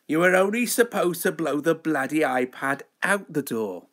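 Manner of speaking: lightly voiced film-star parody; badly faked impression of a well-known actor; Michael Caine. Host reworking a film quote about an iPad, light impression. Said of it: "Michael Caine impression".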